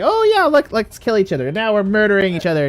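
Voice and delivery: high, mock-cheery character voice; gleefully absurd, hammed-up dialogue; talking to oneself. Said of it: "have a conversation with yourself".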